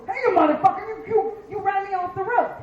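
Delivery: hammed-up yell out of a car window; mock road rage. Fifty-year-old driver yelling at who cut them off, mock rage. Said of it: "run him down and go".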